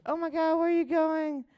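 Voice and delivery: driver's voice imitation. Retelling the driver greeting him, high odd put-on voice. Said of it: "It sounded just like that".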